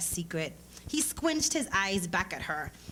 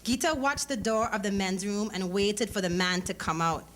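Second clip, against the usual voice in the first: plain reading voice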